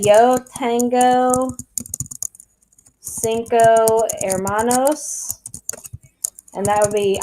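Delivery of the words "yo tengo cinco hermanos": slow, careful model sentence in Spanish. Shown as a demonstration. Teacher models the full sentence for her students, slowly. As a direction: say "Yo tengo cinco hermanos" slowly, each word set apart. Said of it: "So you can say".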